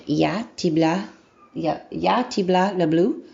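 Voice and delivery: halting attempt at "Ya, tibla, le bleu" with rough learner pronunciation; butchered Russian. Shown as a demonstration. Beginner trying "I love you" in Russian, butchered "Ya, tibla, le bleu". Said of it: "Now I'm butchering it".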